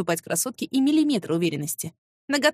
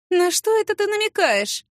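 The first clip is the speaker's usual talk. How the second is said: higher, sly and needling; snide challenge; 10 semitones higher, 3 dB louder than usual. A narrator's reading. Rival needling the secretary, sly and snide. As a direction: narrow your eyes and needle her. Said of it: "ехидно".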